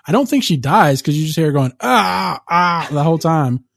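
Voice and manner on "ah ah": imitated drawn-out wail of pain; mock scream. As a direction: mimic someone screaming, without full force. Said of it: "just screaming".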